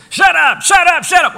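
high, loud rapid-fire shout; mock crowd shouting. Crowd silencing the blind beggars, mock shouting. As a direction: shout them down, hammed up.

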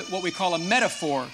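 ordinary talk, nothing marked

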